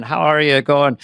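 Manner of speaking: lightly imitated Irish accent; a touch of mock Irish lilt. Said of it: "if you meet an Irishman".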